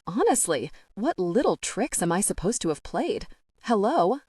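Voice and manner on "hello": a lightly polite greeting; polite hello. Acted. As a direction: keep it courteous and even. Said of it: "I say politely".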